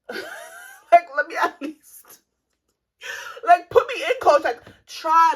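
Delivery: loud, high, laughing plea; mock pleading. Real, not acted. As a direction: beg to be put in the game. Begging to be given a chance.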